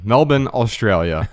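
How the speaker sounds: Melbourne as MEL-bin, second syllable reduced; Australian pronunciation. Shown as a demonstration. Host announces the city the Australian way, local pronunciation. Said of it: "But I know in Australia".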